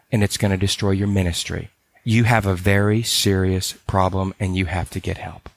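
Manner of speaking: low, firm confrontation. Retold or imitated. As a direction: lay down a hard truth, steady and unflinching. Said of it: "She was just very firm".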